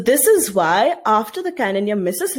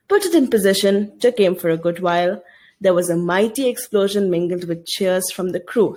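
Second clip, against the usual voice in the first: lightly dramatic classroom reading; story reading. Acted. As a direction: read the passage like a storyteller to the class. Teacher reads novel passage aloud.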